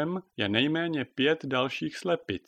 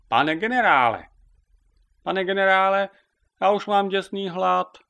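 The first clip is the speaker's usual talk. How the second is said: high, loud whine; complaining hen; 8 semitones higher, 7 dB louder than usual. A narrator's reading. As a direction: moan to the general about hunger. Hungry hen Zita complains. (hlasité vysoké kňourání)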